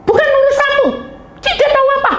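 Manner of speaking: high, loud mock yelling; hammed-up sisterly outburst, very high; imitated angry retort. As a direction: snap back defiantly at the top of the voice. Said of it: "Marah-marah gitu".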